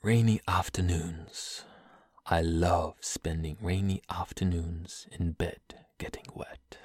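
put-on British-accented poem, fading to a whisper. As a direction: read it hushed in a British accent. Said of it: "do that one in a British accent".

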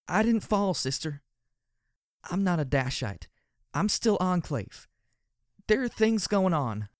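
high, slow, breaking plea to her sister; high voice about to crack, pleading slowly; brittle heartbroken voice. Acted. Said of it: "Glory began in a brittle, heartbroken voice".

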